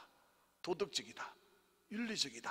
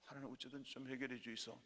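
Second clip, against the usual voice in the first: hushed dialect plea; praying to God; 3 semitones lower, 11 dB quieter than usual. Acted. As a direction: beg quietly, acting out a prayer. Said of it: "그러면서 위로를 받고 살아가는 거죠". (사투리로 나직이 간청하는 기도 흉내)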